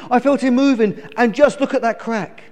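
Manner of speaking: high-pitched eager mother; excited. A narrator's reading. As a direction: share the news breathlessly keen. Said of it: "cried the mother excitedly".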